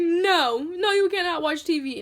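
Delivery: stern refusal. Retold or imitated. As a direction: shut the kid down as an imitated cross mother. Mother refuses pleading child.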